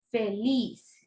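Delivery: feliz with a drawn last syllable; fe-LIZ, said as an isolated example; stress on final LIZ. Shown as a demonstration. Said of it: "intensidad de la pronunciación".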